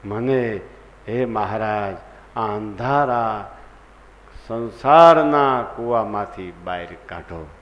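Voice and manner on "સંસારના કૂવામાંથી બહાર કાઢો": louder pleading prayer; loud plea. Shown as a demonstration. Preacher modelling a prayer for listeners, louder pleading. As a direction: cry out to be pulled from the well. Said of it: "બસ એટલું બોલતા શીખો".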